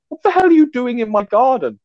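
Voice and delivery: high, indignant shout out the window; man shouting at cats lounging in his garden. Retold or imitated. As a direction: yell at the trespassing cats.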